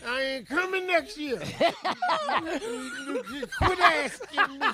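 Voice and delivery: put-on whiny, self-pitying drunk; sob-whine like a sad drunk; drunk crying. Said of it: "the woe is me crying drunk".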